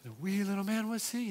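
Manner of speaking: animated storyteller. Retold or imitated. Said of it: "so I'd be real animated".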